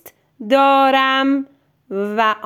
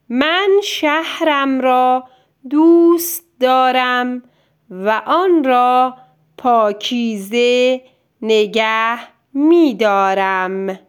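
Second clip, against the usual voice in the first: dictation read-aloud. Shown as a demonstration. Teacher reading a dictation sentence to a child, clear and even. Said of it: "جملهٔ اول رو میخونم".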